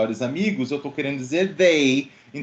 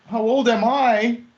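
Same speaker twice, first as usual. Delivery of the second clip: questioning rise; 9 semitones higher, 4 dB louder than usual. Shown as a demonstration. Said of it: "A Bia já respondeu lá super rápido".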